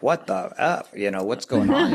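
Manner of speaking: high, incredulous what-the-F, ending in a laugh; half-laughing disbelief at the mess; retold shocked outburst. Husband retelling his wife's shock, high incredulous half-laugh.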